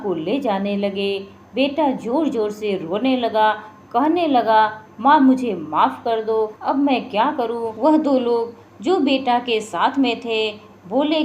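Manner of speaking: steady storyteller's reading voice; story narration. A narrator's reading. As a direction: tell the tale evenly to listeners. Narrates a devotional folk tale. (कहानी सुनाने का अंदाज़)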